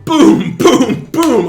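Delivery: loud, high booms; punchy impact words. Acted. Game master voices three hits landing.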